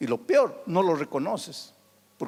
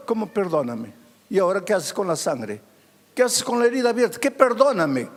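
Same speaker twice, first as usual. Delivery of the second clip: indignant retort; faster than usual. Acted. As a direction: throw the apology back in his face. Wife retorts to the apology.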